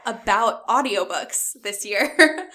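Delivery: stifling a laugh, slow; trying not to laugh; holding back laughter. Real, not acted. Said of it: "I'm trying not to laugh right now".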